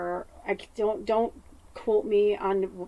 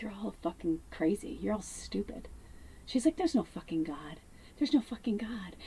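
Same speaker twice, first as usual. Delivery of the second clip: retold yell; 9 dB quieter than usual. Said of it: "started to scream and yell".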